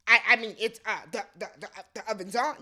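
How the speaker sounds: stammering, evasive imitation; mock hedging. Host mimicking the husband dodging a yes-or-no question, mock hedging. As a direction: stumble over every word, going in circles. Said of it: "he talks in circles about things".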